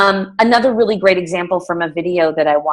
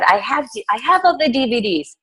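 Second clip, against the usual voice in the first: a light attempt at a German accent, higher; hint at a German accent, pitched up; 4 semitones higher than usual. Coach quoting a German client who came to her, light German accent. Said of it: "She's German, so I'm saying".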